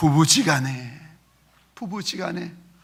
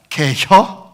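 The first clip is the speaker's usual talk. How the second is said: Chungcheong dialect; 6 dB louder, much slower than usual. Retold or imitated. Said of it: "충청도 말은 간단합니다".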